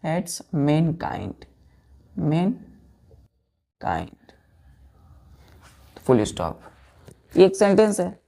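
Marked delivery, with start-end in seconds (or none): 0.1-6.6 drawn out, very slow; slow dictation. Shown as a demonstration. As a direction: dictate the meaning slowly. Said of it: "जिसका मतलब है".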